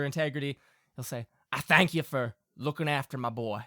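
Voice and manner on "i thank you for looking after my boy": lightly voiced country father, softening at the end; sincere Southern Pa. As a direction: thank your son's friend earnestly. Game master plays Pa.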